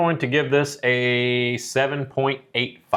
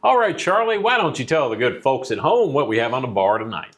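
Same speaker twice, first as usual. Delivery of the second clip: radio voice. Acted. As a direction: announce it like a radio host. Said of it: "I got my radio voice on".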